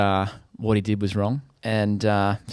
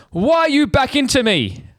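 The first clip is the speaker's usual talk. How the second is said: much higher, slow whiny mock voice; mocking the other driver; 4 dB louder than usual. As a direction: mimic the guilty driver in a high, whining tone. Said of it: "He goes".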